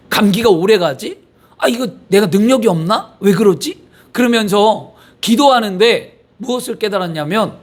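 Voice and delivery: normal talking voice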